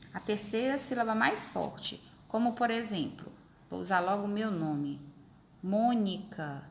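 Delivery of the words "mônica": "Mônica" said slowly and evenly; sounded-out example word. Shown as a demonstration. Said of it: "Qual é a sílaba mais forte?".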